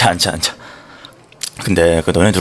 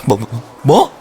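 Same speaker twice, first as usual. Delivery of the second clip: shocked; 2 semitones higher, much slower than usual. Acted. Shocked by the news.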